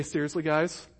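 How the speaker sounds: mock exasperated eye-roll question; fed up with them; a hint of a teacher losing patience. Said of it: "been tempted to say".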